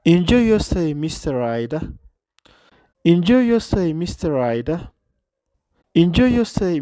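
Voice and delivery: "Enjoy" high and loud, a clipped welcome; hotel clerk welcome, enjoy stressed. Shown as a demonstration. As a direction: hit "Enjoy" up and strong. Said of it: "ቆራፅ እያ".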